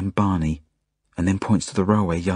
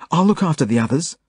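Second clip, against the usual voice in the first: raised, pleading reassurance; begging; 7 semitones higher than usual. A narrator's reading. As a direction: plead with him in a higher pitch. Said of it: "I beg Barney".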